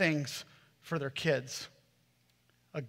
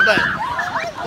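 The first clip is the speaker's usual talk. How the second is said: evil laugh; 6 dB louder than usual. Retold or imitated. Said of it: "I might have evil laughed".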